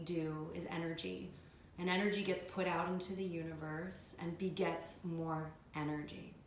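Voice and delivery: measured meditation voice with long pauses; guided meditation. Acted. Yoga teacher leading students through a visualization, guided meditation. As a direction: guide them calmly, phrase by phrase, leaving space.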